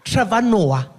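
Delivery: high, loud recognition of a name; put-on receptionist, dawning recognition; suspicious check-in woman. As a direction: announce it accusingly as a surly clerk. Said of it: "She's not friendly at all".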